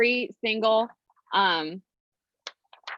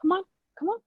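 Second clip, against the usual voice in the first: pleading; 8 semitones higher than usual. Real, not acted. Frozen screen, pleading with a child.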